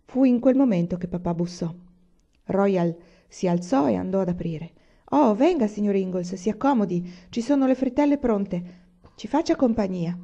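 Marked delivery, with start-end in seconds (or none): 5.1-10.2 a touch of a host calling a guest in; hearty welcome. Acted. Royal welcomes Pa at the door.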